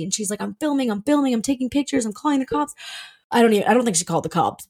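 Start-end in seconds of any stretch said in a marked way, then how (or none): 0.4-2.7 imitated frantic neighbor. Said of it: "she was absolutely going crazy".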